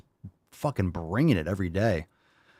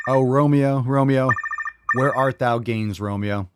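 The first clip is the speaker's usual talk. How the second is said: loud, high theatrical Romeo call; hammed-up balcony plea, projected big; mock Shakespeare; 4 semitones higher, 5 dB louder than usual. Dramatic Shakespeare call to caller.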